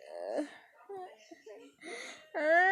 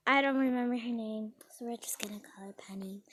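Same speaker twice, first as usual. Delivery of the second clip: whispered aside; 2 semitones lower than usual. Real, not acted. Telling viewers a made-up name, whispered. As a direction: let the listener in on a secret.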